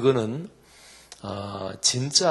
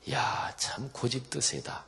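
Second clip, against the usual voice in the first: exasperated sigh; 4 semitones higher than usual. Retold or imitated. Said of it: "그건 하나님이".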